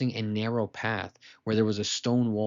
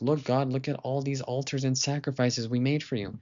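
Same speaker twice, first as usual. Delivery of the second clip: boasting; 3 semitones higher than usual. Acted. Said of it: "Bilam started to boast".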